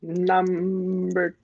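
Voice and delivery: drawn out. Acted. Player echoes the chosen target.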